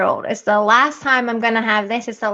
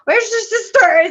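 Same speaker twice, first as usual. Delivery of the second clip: slow, higher, louder call across the house; 9 semitones higher, 4 dB louder, slower than usual. Retold or imitated. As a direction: call out to kids in another room. Calling out to kids.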